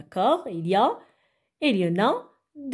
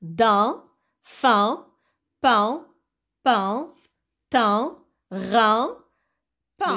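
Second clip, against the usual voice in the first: syllable drill; much slower than usual. Shown as a demonstration. Teacher repeats the syllables for the children, drill reading. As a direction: separate syllables, each lifting at the end. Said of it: "Alors, je répète".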